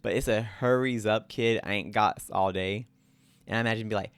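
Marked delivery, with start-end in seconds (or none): 0.4-2.9 grungy Italian New Yorker, lightly put on; hint of an Italian New York wise guy; attempted Italian New York. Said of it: "like, Italian, like, New York, like, grungy".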